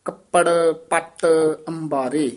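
ਕੱਪੜ ਪੱਟ ਅੰਬਾਰੇ with doubled, pressed ਪ and ਟ; tightened pronunciation. Shown as a demonstration. Teacher modelling for students, tight ਕੱਪੜ ਪੱਟ. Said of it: "ਕੱਸ ਕੇ ਉਚਾਰਨ ਕਰਨੇ ਹਨ".

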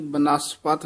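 ਬਨਸਪਤ stressed on the second syllable; correct pronunciation. Shown as a demonstration. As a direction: say ਬਨਸਪਤ with a short first syllable, ba-NAS-pat. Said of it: "ਹੀ ਉਚਾਰਨ ਕਰਨਾ".

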